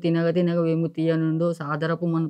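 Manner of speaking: slow, measured verse recitation; poem recital. Shown as a demonstration. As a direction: recite the poem slowly and evenly. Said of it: "తెలుగులో ఒక పద్యం". (పద్యం పఠనం)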